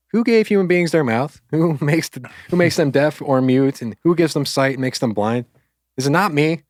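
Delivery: mock indignation. God answers Moses's excuses, mock indignant. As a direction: act out an incredulous comeback with chuckles.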